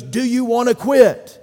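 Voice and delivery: high, loud shouted challenge; coach's challenge. Retold or imitated. Coach challenging his tired team, shouted high. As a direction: dare them to quit at full voice. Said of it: "And he goes".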